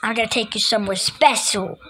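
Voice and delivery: fast, quiet menacing villain voice; evil voice. Pretend. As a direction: rush it like a sneaky villain. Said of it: "You're not even evil".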